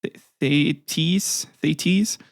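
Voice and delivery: "Thetis" with a long EE in the last syllable, rising; tentative pronunciation. Shown as a demonstration. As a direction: slowly try "Thetis" as THAY-teez, questioning. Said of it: "I might be pronouncing her name wrong".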